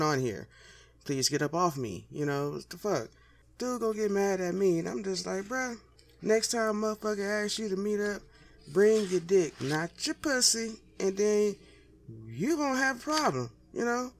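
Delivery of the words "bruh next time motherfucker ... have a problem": retold yelling. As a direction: belt it out like you're scolding him. Telling off the partner, yelling.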